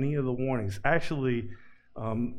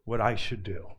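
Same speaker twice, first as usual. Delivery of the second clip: defiant challenge; 2 semitones lower than usual. Acted. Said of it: "the pride of man that says".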